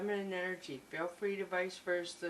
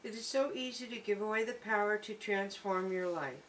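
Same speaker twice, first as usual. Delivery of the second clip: reading aloud. Acted. Reads guidebook text aloud.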